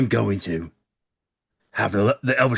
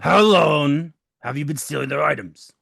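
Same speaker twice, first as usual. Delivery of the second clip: sharper, louder repeat of the question; pressing interrogation; 4 semitones higher, 4 dB louder than usual. Acted. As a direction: push the question harder. Repeats question more forcefully.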